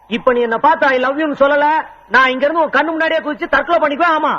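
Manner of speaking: high-pitched public ultimatum; dramatic threat. Acted. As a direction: threaten her for all to hear. Threatens to jump from height.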